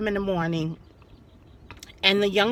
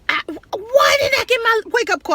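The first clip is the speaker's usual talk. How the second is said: high, mock furious yell at the clerk; man yelling at hotel clerk, angry and high; 11 semitones higher, 3 dB louder, faster than usual. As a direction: imitate a man yelling in outrage. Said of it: "screaming at the girl".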